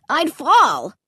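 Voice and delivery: scared cry. A narrator's reading. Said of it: "Clay cried".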